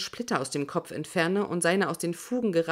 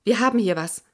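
a woman's voice, louder, over the radio; 2 semitones higher, 5 dB louder than usual. Acted. Radio woman reporting a find, a woman's radio call. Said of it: "eine Frauenstimme".

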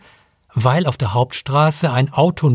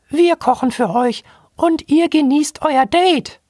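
much higher piping monkey voice; squeaky robot monkey. Acted. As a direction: chirp it like a tiny robot monkey.

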